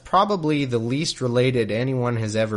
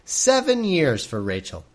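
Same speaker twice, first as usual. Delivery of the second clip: high, slow, swooning mock sincerity; lovestruck Jacob; 7 semitones higher, slower than usual. Jacob pledging years of service for Rachel, mock-swooning high and slow. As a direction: sigh it out like a smitten suitor, hammed up.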